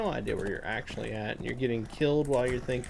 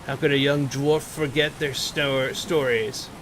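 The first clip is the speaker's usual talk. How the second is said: measured storybook read of the quest text; 2 semitones higher than usual. Acted. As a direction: read it like a dwarf's tale, unhurried. Reads quest text aloud.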